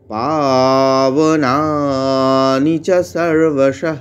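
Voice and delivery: পাবনানি with long পা, সর্বশঃ ending in a breathy হ; Sanskrit pronunciation. Shown as a demonstration. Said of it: "পা দীর্ঘ করলাম". (পা দীর্ঘ, বিসর্গ হ উচ্চারণে)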